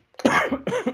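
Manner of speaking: sudden cough from swallowing wrong; coughing fit. Real, not acted. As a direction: cough as the drink goes down the wrong way. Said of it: "J'ai avalé de travers". (quinte de toux)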